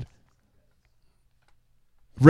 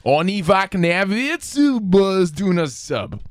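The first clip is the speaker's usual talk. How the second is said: backwards speech; 3 semitones higher, slower than usual. Pretend. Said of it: "love speaking backwards".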